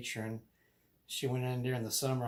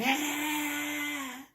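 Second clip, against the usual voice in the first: high shrill-free child scream, retold; high scream of a frightened four-year-old; child's scream. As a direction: let out a scared little kid's scream. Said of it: "I start screaming".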